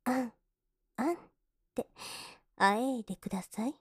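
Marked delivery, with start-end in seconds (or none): 0.1-1.2 short mock moans; brief, voiced moan as a demonstration; demonstrated moan. Shown as a demonstration. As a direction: give two brief example moans. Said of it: "かっこよくあえぐんですよ".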